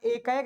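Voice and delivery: एकाइक said as e-kaa-ek; wrong pronunciation. Shown as a demonstration. Teacher shows students the form to avoid, mispronounced. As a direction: end एकाइक in 'ek', losing the i. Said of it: "नहीं होता है".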